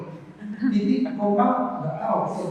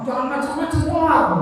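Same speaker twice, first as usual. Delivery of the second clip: phone intonation; 7 semitones higher than usual. Shown as a demonstration. On the phone to a brother, friendly higher intonation. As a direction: lift the voice on the phone version, teasing not scolding. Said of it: "ternyata berbeda intonasi di W A dengan di telepon".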